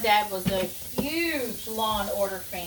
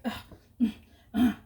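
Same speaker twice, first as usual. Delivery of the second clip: imitated grumbling grunts; fussing grunts; 5 dB louder, faster than usual. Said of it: "fussing, like".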